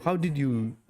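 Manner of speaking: normal talking voice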